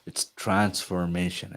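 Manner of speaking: "transformation" said slowly and deliberately; slow, measured emphasis on "transformation"; stress on transformation. Real, not acted. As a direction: stretch out "transformation" to make it land. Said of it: "I want to stress this word".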